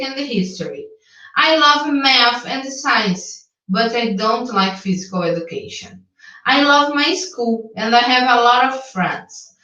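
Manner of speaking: slow, careful English read-aloud; reading aloud to student. Shown as a demonstration. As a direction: read the text out clearly, phrase by phrase. Lê um texto em inglês para o aluno. (leitura didática em voz alta, pausada)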